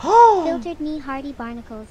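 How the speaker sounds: loud pirate. Acted. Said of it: "Loud equals funny".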